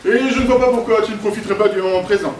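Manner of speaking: fast, suave gentleman delivery; gentleman demo line. Shown as a demonstration. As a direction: play the gentleman, quick and smooth. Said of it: "je vais te montrer".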